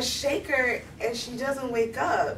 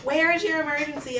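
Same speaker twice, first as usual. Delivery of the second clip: slightly raised dispatcher voice; phone operator; 4 semitones higher, 3 dB louder than usual. Retold or imitated. Operator asks the girl for her location, lightly put-on voice. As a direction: imitate an operator repeating the routine question. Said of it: "And this is the operator".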